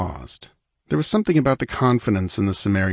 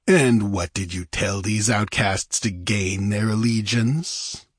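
dangerous. Acted. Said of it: "a dangerous ring in Olgerd's voice".

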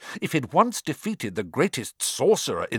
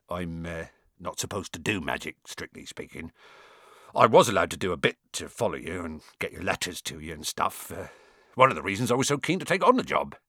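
low, halting gamekeeper voice; sheepish Hagrid; 6 semitones lower, faster than usual. A narrator's reading. Hagrid admitting he shouldn't do magic, sheepishly. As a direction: confess awkwardly with little hesitations.

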